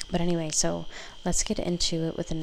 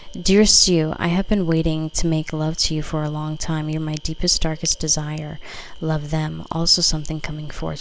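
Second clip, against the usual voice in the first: louder, declaiming the card's words; card message read; 4 dB louder than usual. Acted. Tarot reader reading a card aloud to viewers, louder and declaiming.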